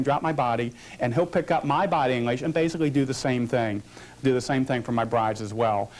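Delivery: ordinary delivery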